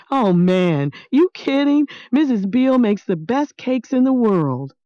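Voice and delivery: Maniac lightly voiced, cheerfully rattling off foods; lightly voiced eager boy. Boy telling old man about dinner, lightly voiced and eager. Maniac praising Missus Beale's cakes.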